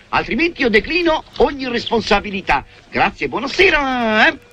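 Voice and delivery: posh doctor voice. Pretend. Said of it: "Qui parla l'illustre clinico".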